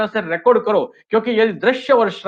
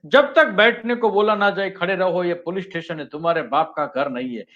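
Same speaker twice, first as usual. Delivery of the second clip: a hint of a stern, commanding cop, fading quieter; lightly voiced film hero laying down the law; Amitabh Bachchan's Zanjeer line; 3 dB quieter than usual. Shown as a demonstration. Teacher quoting the police inspector's famous warning, lightly acted. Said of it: "जंजीर का अमिताभ बच्चन का dialogue है".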